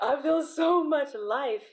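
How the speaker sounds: high, loud, slowed through laughter; laughing exclamation. Real, not acted. Reader amused by her own remark, laughing and high. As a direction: stretch it out while cracking up.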